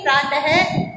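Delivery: प्रात said with "he" added, "pratahe"; प्रात है, visarga sounded as "he"; correct visarga. Shown as a demonstration. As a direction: end प्रात with a breathy "he". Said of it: "है का sound इसमें जरूर आता है".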